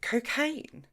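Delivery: startled squawk; choked shock. A narrator's reading. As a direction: gasp it out in disbelief. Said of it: "Jenny choked".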